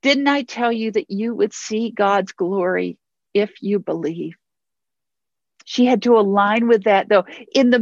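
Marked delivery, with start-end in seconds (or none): 0.0-4.4 a tender reminder, not a scolding; gentle, loving. Acted. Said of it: "hear this with love".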